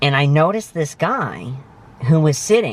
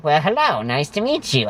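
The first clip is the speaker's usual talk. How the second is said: bad Morgan Freeman; 4 semitones higher than usual. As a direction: barely put on, mostly own voice. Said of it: "I don't do a very good Morgan Freeman voice".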